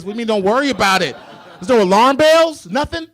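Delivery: loud, high, fast protest; outraged kid. Retold or imitated. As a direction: demand it in disbelief. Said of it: "I'm like".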